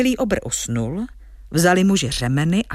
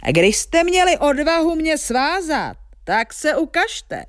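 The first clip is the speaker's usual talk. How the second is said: storybook giant's raised-voice dare; giant shouting; 9 semitones higher than usual. Acted. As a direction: holler like an affronted giant, without full volume. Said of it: "křičel obr".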